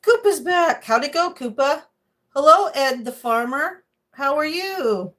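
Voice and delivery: high, loud sing-song to the bird; high cooing pet voice; pet talk. Real, not acted. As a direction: greet the bird brightly. Greeting her pet bird.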